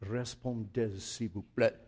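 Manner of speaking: hushed show-off French accent. Shown as a demonstration. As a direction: savor the phrase in a French accent. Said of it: "but the accent was good".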